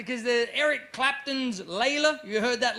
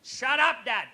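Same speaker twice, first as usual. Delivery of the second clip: put-down, higher; 4 semitones higher, slower than usual. Retold or imitated. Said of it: "He's come back".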